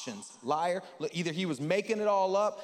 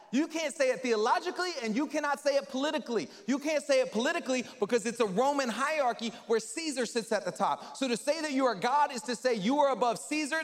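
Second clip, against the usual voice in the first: much higher, loud indignant protest; outraged leaders; 8 semitones higher, 4 dB louder than usual. Retold or imitated. Religious leaders rebuking Jesus, high and indignant. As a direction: scold him with alarm. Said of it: "and they said".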